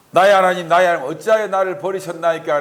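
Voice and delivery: loud anguished plea to God; crying out to God. Acted. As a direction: call out as if abandoned. Psalmist's cry quoted in sermon. (하나님께 부르짖는 큰 외침)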